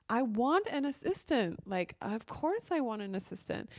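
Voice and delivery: a hint of a defensive snap; triggered frustration. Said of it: "reacting to him in a triggered way".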